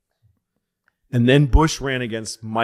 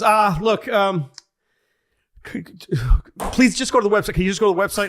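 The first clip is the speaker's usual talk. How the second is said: higher, pleading brush-off; exhausted staffer; 9 semitones higher, 5 dB louder than usual. Retold or imitated. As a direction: beg the caller to go away. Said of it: "He goes".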